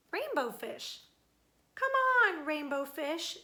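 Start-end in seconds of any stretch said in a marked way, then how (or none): 1.8-2.4 high, loud playful call; children shouting to a friend to come play. Acted. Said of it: "they would call". 2.4-3.4 name called with a rising lilt; calling out. Acted. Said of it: "they would call".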